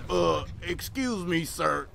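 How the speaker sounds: slow imitation of a country classmate; drawn-out country accent, asking for attention. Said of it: "that's my country accent".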